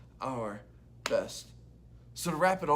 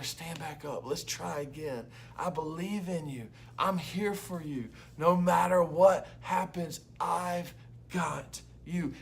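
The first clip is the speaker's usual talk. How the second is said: tender encouragement; 2 semitones higher, slower than usual. Retold or imitated. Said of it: "I'm gonna tell her".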